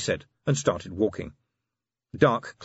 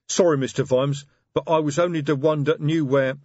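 troll voice; 6 semitones higher, 5 dB louder than usual. Acted. Troll sergeant Detritus speaks.

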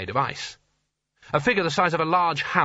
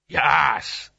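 giant booming voice; 4 dB louder than usual. A narrator's reading. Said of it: "it said".

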